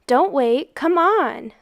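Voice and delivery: put-on the boys yelling down to Manchut. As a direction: call him up eagerly. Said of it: "the boys yelled".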